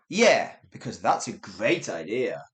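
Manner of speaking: dry deadpan sarcasm, second take; British sarcasm. Shown as a demonstration. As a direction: keep it flat and dry. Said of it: "One more time".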